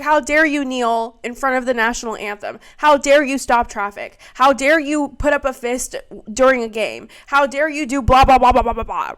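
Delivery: hammed-up indignant scolding that trails into blah; mock outrage. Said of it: "They were like".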